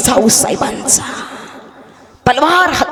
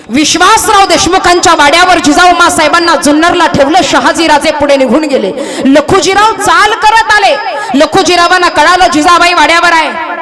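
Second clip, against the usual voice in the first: raised, urgent narrator's voice; dramatic storytelling; 4 semitones higher than usual. A narrator's reading. Storyteller announces the father's march to the mansion, dramatic.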